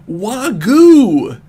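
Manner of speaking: a loud, high yelp of shock; startled cry. Acted. Knuckles yelps at the sight of the baby, loud and high. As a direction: blurt it out like a startled animal. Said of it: "making that sound when he saw the baby".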